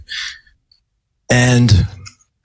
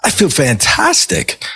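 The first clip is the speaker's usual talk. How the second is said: much higher, giddy voice, slowing on the last words; euphoric protest; 7 semitones higher than usual. Retold or imitated. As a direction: sound blissed out and untouchable.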